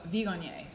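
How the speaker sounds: Viognier with the G sounded; hard G in the middle of Viognier; mistaken pronunciation. Shown as a demonstration. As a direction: say Viognier like "vee-GON-yay". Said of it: "I thought it was Vigo".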